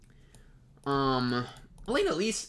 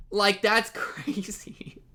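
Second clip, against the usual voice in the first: whispered laughing disbelief; 3 semitones higher, much slower than usual. Real, not acted.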